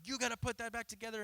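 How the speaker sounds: firm parent. Retold or imitated. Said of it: "And I'm like".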